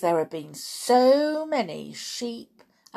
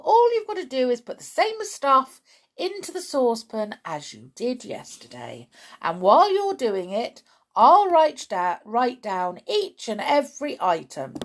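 high, loud, emphatic instructions; bowl over objections with enthusiasm; excited dad; 5 semitones higher, 6 dB louder than usual. A narrator's reading.

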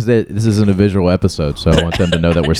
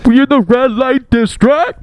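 mock surprise; 3 dB louder, much slower than usual. Mock naive reaction to hint.

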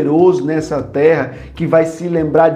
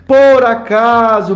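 "por acaso" drawn out slowly, higher; slow emphatic por acaso; 6 semitones higher, 3 dB louder, slower than usual. Real, not acted. Preacher to the congregation, stretching "por acaso".

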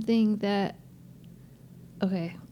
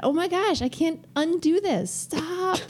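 high, slow, laughing through tears; welling up; 8 semitones higher than usual. Real, not acted. Mother tearing up while talking to her daughter. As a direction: fight back tears with a laugh. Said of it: "Stop welling up".

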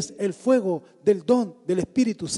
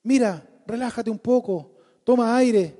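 coddling, soothing mock tone; baby him gently and sweetly; mimo tierno; 4 semitones higher than usual. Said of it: "¿Le dijo así? No". (tono mimoso y consentidor)

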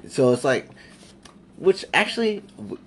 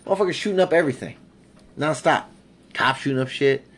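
excited rant; 5 semitones higher than usual. Real, not acted. Hyped rant about crime everywhere.

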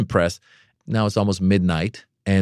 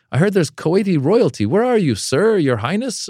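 emcee calling out; 11 semitones higher than usual. Retold or imitated. Crowd work on stage.

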